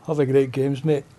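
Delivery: flat, reluctant Have a great games, mate; lightly imitating a Glaswegian who does it but keeps his dignity; grudging Glasgow greeter. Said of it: "still holding on to that bit of dignity".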